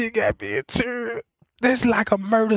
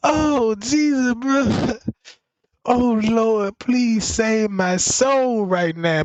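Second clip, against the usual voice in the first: laughed out; 2 semitones higher, much slower than usual. Real, not acted. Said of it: "My stomach hurting".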